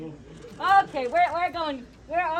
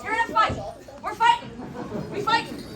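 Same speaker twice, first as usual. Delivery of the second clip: hyped fight call; 6 semitones higher, 3 dB louder, faster than usual. Pretend. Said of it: "You're beating up everybody".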